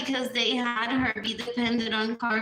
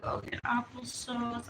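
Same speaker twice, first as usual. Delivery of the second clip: whispering; 6 dB quieter than usual. Real, not acted. Whispered item in a list.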